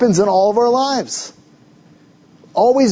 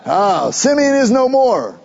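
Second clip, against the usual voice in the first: slow, sighing, a touch higher; mock lament; 4 semitones higher, slower than usual. Pastor mimics Jacob's self-pitying sigh over Simeon. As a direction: drag it out like a sulky old father. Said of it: "He don't care".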